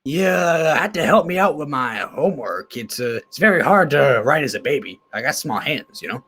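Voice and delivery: a light take on Alex. Acted. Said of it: "Really loving the Alex voice".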